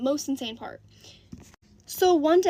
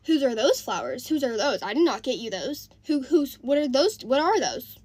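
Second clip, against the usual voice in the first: louder, accusing repeated questions; jealous demand; 5 dB louder than usual. Retold or imitated. Jealous boyfriend grilling mom about flowers, loud and accusing. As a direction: hammer him asking whose the flowers are.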